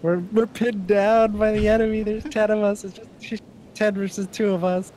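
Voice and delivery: high, loud, breathless battle narration; dramatic war movie voice. Retold or imitated. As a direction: sell it like a war film.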